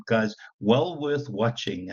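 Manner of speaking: usual speaking voice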